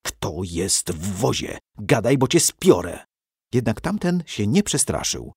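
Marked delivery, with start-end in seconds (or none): 0.1-3.1 through gritted teeth. Acted. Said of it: "wycedził przez zęby".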